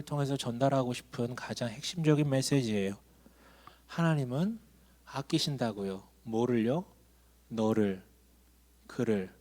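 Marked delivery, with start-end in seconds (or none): none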